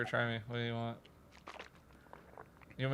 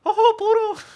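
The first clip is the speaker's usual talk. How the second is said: very high, loud goofy cartoon yelp; 14 dB louder than usual. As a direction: squeal it like a goofy cartoon dog with a laugh. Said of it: "Mickey Mouse, then?".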